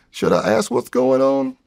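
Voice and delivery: nervous squeaky throat; tight high voice. Shown as a demonstration. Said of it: "My throat's tighter".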